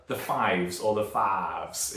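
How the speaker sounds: slow, stretched Texan "faves" for "fives"; hammed-up Texan "faves"; mock Texan drawl. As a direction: say "faves" like a bad Texan impression. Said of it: "I just did that appalling fives impression".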